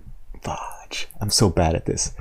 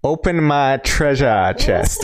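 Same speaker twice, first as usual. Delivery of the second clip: slow failed Aussie accent; a bad Australian try; slower than usual. Shown as a demonstration. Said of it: "That wasn't even close".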